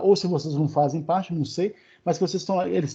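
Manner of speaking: ordinary talk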